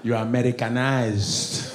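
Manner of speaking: put-on slow Nigerian-accented verdict; drawn-out Nigerian disapproval. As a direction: pronounce judgment slowly in a Nigerian accent. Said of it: "Even Nigerians be testing me".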